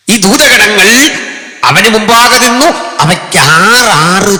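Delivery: high, loud ringing call; preaching cry. Real, not acted. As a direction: lift it up to the crowd. Preacher emphatic. (ഉച്ചത്തിൽ പ്രഘോഷിച്ച്)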